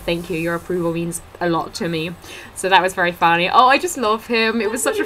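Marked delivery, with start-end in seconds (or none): 0.0-2.1 softer deadpan thanks; dry sarcasm. Retold or imitated. Fan thanking the comedian with dry sarcasm. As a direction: say it bone dry. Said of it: "And I said".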